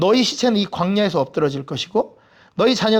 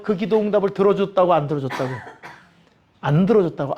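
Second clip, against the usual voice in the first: usual speaking voice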